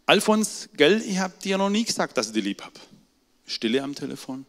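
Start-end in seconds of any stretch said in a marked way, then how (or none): 0.1-2.8 höher, zögerlich, leiser werdend; zögernder alter Vater. Retold or imitated. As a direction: wie ein alter Mann, der sich überwindet. Vater gesteht seine Liebe. (alter Vater gesteht dem Sohn zögernd seine Liebe)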